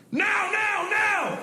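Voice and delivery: very high, drawn-out yell; military guys' urgent shout. Retold or imitated. Military guys warning passengers at landing, high urgent shout. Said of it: "two big military guys get up and go".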